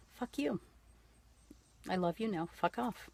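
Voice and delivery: cheerful high-pitched brush-off, no anger; hearty fuck you. Pretend. Widow answering unwanted grief advice, cheerful loving brush-off. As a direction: toss it off lovingly, with a grin. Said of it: "it's a hearty".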